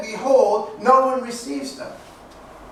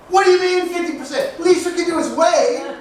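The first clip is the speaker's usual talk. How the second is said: higher-pitched mock indignant complaint; mock indignation; 5 semitones higher than usual. Driver complaining about people who don't wave back, mildly indignant. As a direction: complain in exaggerated affront.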